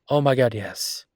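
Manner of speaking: light up over the tomatoes; gushing to her partner about homegrown tomatoes, excitedly. Acted.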